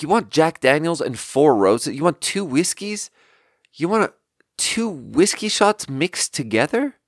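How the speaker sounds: puzzled, rising questions; baffled questioning. Retold or imitated. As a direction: check the odd order, pitch climbing in disbelief. Acting out her baffled questioning of a customer.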